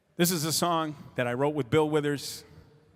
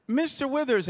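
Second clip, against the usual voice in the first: respectful address; 11 semitones higher than usual. Retold or imitated. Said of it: "started calling him Mister Withers".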